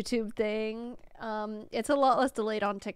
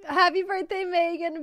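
higher, a catch of happy tears; tearful joy; 5 semitones higher than usual. Real, not acted. Streamer reading her birthday sign, choked with happy tears. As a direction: read the sign as if about to cry.

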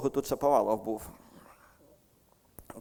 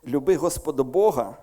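Люби Господа Бога said louder and weighted; stress on Господа Бога; 6 dB louder than usual. Shown as a demonstration. Preacher demonstrating emphasis to the congregation. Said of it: "і ми ставимо наголос".

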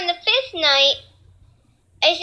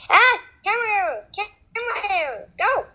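panicked yelling; 5 semitones higher than usual. Real, not acted. Panic during game.

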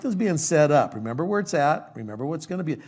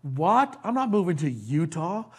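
incredulous protest; 3 semitones higher, slower than usual. Retold or imitated. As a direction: balk at an unthinkable order. Acting out shocked reply to God.

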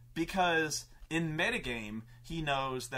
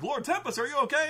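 higher, louder anxious call to their lord; worried guards; 10 semitones higher, 5 dB louder, faster than usual. Acted. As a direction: call out nervously to the boss. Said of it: "they're like".

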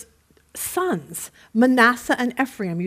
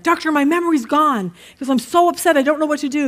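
higher, louder, panicky patient voice in the joke; freaking out; 4 semitones higher, 3 dB louder than usual. Retold or imitated. Patient telling the doctor he's lost his memory, mock panic. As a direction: play the forgetful patient in a mild panic. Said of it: "he's freaking out".

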